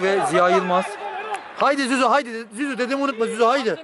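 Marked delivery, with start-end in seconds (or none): 1.6-3.8 cheering shout. Real, not acted. Cheering substitute on.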